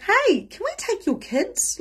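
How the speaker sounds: high, drawn-out sing-out; friendly doorstep offer. Retold or imitated. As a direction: imitate a friend calling in at the door. Friend at door offers to help.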